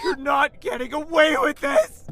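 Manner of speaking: high, loud enraged shout; furious threat. Acted. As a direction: hurl the threat. Prince threatens captor.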